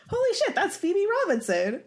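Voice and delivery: high, excited gasp of recognition; starstruck. Retold or imitated. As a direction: spot a celebrity and squeal. Retold starstruck reaction.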